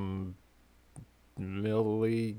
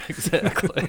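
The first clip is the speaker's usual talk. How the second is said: laughing; 9 semitones higher, 6 dB louder than usual. Real, not acted. Laughing approval of the yeehaw.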